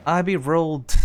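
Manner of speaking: put-on "I be rolled" in a gruff dwarf accent. Streamer plays the dwarf introducing himself, dwarf accent. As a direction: introduce yourself as the dwarf, leaning into the brogue. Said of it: "I'm sorry I started that with an accent".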